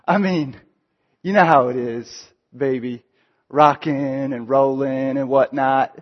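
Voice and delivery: a hint of a teen showing off to friends; cool guy. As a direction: play it cool and casual. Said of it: "turns into cool guy real quick".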